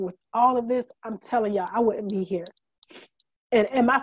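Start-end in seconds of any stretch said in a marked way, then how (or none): 1.7-2.5 whispered confession, barely voiced. Real, not acted. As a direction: let it fall to a whisper. Emotional confession.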